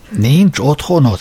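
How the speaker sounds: high, slow, shaken exclamation "Nincs otthonod?"; deeply moved cry. Acted. Braddock to homeless Sam: slow, deeply moved cry. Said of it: "kiáltotta mister Braddock mélyen megindulva".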